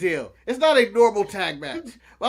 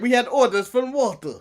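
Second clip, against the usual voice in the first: lightly attempted Russian accent at normal volume; weak Russian accent; 3 semitones higher than usual. Co-host retries the wrestler's line after teasing, slight Russian accent. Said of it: "you didn't even give him a Russian accent".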